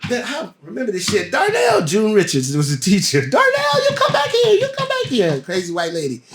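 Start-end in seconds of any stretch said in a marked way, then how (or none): 3.3-5.4 high, loud calling; calling after him. Retold or imitated. Teacher calls after the actor storming out, loud and high. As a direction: chase him down with your voice.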